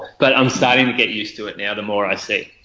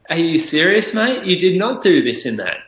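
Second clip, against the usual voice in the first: mock indignant callout; 6 semitones higher than usual. Commenter calling him out.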